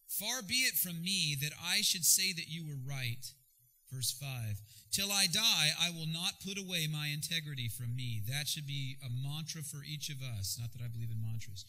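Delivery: measured Bible reading; scripture reading. Acted. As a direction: read the verses with weight. Reads scripture aloud.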